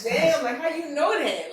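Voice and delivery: stunned he could read her; surprised. Retold or imitated. Guest retelling her amazement at her mentor. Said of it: "And it was like".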